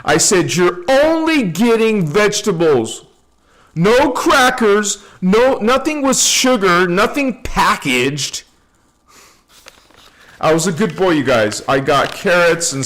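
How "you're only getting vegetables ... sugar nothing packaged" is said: self-command. Retold or imitated. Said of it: "I committed myself beforehand. I said".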